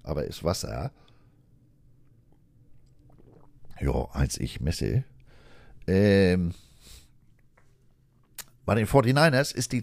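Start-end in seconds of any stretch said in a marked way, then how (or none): 0.0-5.0 talking around a sip of water; while sipping a drink. Real, not acted. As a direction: speak mid-drink, lips on the glass. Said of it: "Moment, ich muss noch was trinken".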